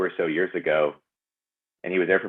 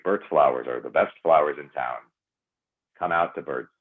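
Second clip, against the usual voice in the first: lower voice; 3 semitones lower than usual. Shown as a demonstration. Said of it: "I can go down here".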